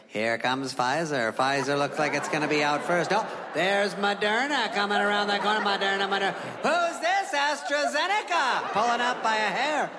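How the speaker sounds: mock racetrack announcer; race announcer. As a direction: call it like a horse race. Horse race announcer call.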